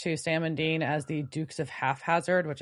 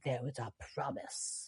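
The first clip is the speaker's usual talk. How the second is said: menacing promise; 4 semitones lower, 12 dB quieter than usual. Retold or imitated. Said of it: "And she's like".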